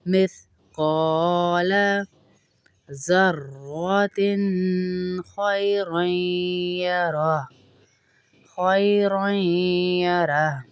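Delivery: slow, drawn-out melodic tarteel; Quran recitation. Shown as a demonstration. Teacher reciting the verse to students, slow melodic tarteel. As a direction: chant each word slowly and evenly.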